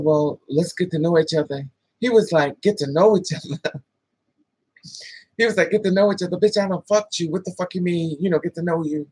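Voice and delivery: ordinary talk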